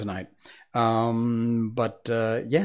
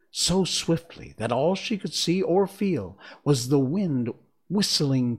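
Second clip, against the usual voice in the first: measured, expressive storybook reading; story narration. A narrator's reading. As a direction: read the tale aloud, pausing between phrases. Reads the story aloud.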